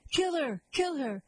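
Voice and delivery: high-pitched mock mob chant; mob cry. Dwarfs call for her death.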